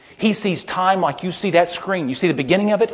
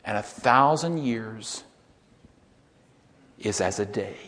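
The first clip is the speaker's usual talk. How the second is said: slow, hushed whisper trailing off; whispered second half; 4 semitones lower, slower than usual. Shown as a demonstration. Preacher whispering the half nobody quotes, hushed. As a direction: let the forgotten half fade to a whisper. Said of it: "You never hear them finish it".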